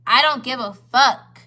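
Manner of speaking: slow, loud, leaning hard on each word; emphatic. Real, not acted. To the men at the table, slow and loud and defiant. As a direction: make it land as a flat refusal.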